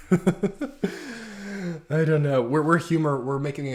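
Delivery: high, loud laugh through words. Real, not acted. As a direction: laugh it off while talking. Laughing after joke.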